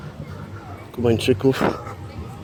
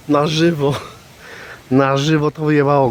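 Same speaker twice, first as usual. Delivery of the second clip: laughing; 3 semitones higher, 3 dB louder than usual. Real, not acted. Laughing at it falling.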